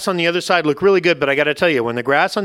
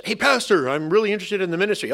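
lightly acted keen newcomer, pitched up; a hint of an over-keen applicant; eager would-be pastor; 3 semitones higher than usual. Would-be pastor asks his pastor for a role, mock eager. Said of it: "people who wanna become pastors".

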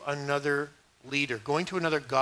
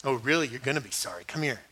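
low, softer threat from a dad; imitated stern dad; 4 semitones lower, 3 dB quieter than usual. Dad answering his child's fake sorry, quietly menacing. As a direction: lower your voice like a dad about to punish. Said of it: "the way my dad would deal with us".

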